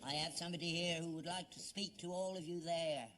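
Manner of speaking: imitated spirit guide, measured and sustained; lightly put-on séance spirit voice; Geronimo. Father retelling the séance, imitating the spirit guide. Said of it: "Well, this one's Geronimo".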